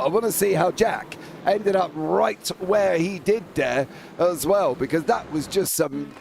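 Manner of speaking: brisk live race call; motorsport commentator. Acted.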